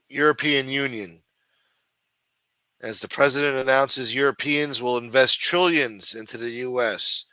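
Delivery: deliberate headline-reading delivery; news read. Real, not acted. Streamer reading the Trump tariff deal to viewers, measured news read. Reads a news story aloud.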